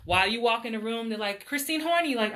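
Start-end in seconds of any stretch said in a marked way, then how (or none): 1.5-2.2 imitated name call. Acting casting staff calling her name.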